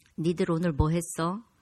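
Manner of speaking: voice dropped low, cold, calm, menacing. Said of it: "이렇게 목소리 딱 깔면".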